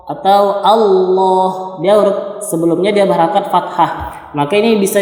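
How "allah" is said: ALLAH with a heavy, rounded "lloh"; heavy lam. Shown as a demonstration. Teacher showing the reading after fathah, heavy lam in ALLAH. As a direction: say "Allah" slowly, dwelling on a dark L. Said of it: "lafaz Allahnya dibaca berat".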